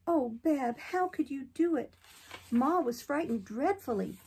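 put-on little girl Betty. A narrator's reading. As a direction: coax a friend out of hiding, gently. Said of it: "said Betty".

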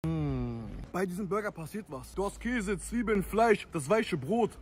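talking while chewing; eating between words; mouth full. Real, not acted. Seen 0: Bites burger, talks while chewing holding it, bites again.

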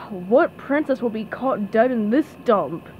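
understated gloomy grumble. Acted. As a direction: ask it with mild weary scorn. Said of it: "he asked gloomily".

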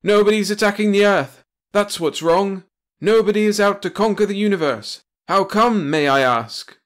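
loud, high bellowed answer; roaring. A narrator's reading. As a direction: roar it at the hero. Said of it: "roared Metternich".

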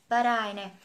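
"but I" run together as one sound; linking. Shown as a demonstration. Teacher showing the linked sound. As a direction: join "but" and "I" smoothly. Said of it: "phần nối âm ở đây rất đơn giản là but I".

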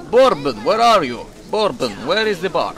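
loud call across a distance. Pretend. Gamer hunts for a character in the game, calling out. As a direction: holler for someone you are searching for.

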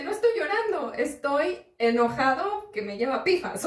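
half-acted indignant protest; retold angry reply. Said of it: "estoy bastante, bastante enojado".

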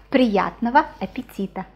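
unvoiced whispered phrase. Real, not acted. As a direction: breathe the words out as a whisper. Whispered phrase during lesson.

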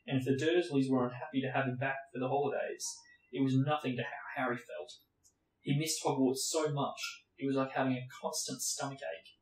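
steady read-aloud narration; story narration. A narrator's reading. Reading Harry Potter aloud to viewers, steady narration. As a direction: read it like an audiobook.

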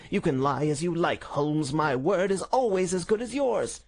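high, indignant villain's snarl. A narrator's reading. Arrested villain accusing the detective, high snarling indignation. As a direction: protest high and heated, vowels stretched. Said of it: "cried the high, snarling voice".

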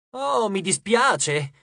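drawn-out mock sorry; sarcastic apology. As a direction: stretch out an insincere apology. Leo's sarcastic retort to girl. (scusa sarcastica)

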